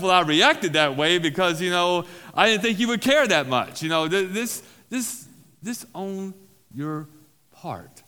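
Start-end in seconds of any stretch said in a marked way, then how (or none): 0.0-3.8 louder, self-justifying excuse; mock the defensive excuse. Shown as a demonstration. Pastor mimics someone justifying themselves in an amends, defensive. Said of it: "without justifying yourself".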